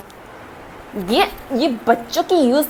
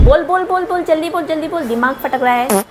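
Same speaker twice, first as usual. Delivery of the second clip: angry impatience; 3 semitones higher than usual. Acted. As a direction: press for an answer, losing your temper. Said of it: "गुस्सा क्यों होती हो?".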